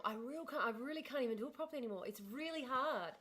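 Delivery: soft, relaxed-mouth Aboriginal Australian accent; attempted Aboriginal accent. Shown as a demonstration. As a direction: try an Aboriginal accent, barely moving the mouth, quietly. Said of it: "I'm gonna try and relax my mouth".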